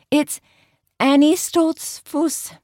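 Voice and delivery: high, slow Pennsylvania Dutch "Annie Stoltzfus"; Pennsylvania Dutch accent. Acted. Karen announcing her fake name in accent.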